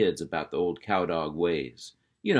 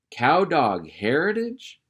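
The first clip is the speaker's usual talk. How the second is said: high, slow, rising on cow; amazed boy echo; 7 semitones higher, 6 dB louder, slower than usual. Acted. Roscoe repeating his uncle's words, high and astonished. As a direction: echo it back in disbelief.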